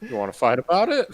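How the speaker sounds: put-on Chicago accent. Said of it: "that's Chicago now".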